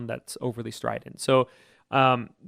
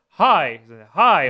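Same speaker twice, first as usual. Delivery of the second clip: louder, higher firm call; firmer high; 7 dB louder than usual. Shown as a demonstration. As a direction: punch it out firmly. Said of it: "Say it firmer".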